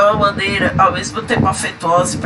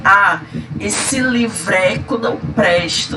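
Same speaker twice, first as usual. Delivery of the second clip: scornful livreco; slower than usual. Shown as a demonstration. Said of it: "quando eu falo assim".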